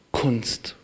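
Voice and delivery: a hushed, awed whisper. Real, not acted. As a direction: breathe "Kunst" as a soft whisper. Sermon point trailing into whisper.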